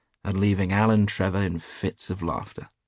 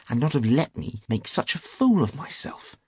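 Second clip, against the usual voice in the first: higher, aggrieved complaint; sulky; 7 semitones higher than usual. A narrator's reading. Hughie reproaching his friend for not warning him, sulkily. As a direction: complain with a sulk. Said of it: "said Hughie sulkily".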